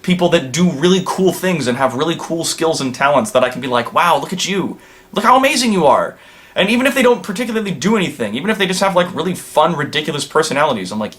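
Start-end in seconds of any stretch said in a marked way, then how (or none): 3.9-6.2 higher-pitched mock gushing; imitated admiration. Voicing a reaction to talented friends, lightly gushing. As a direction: gush lightly as if impressed.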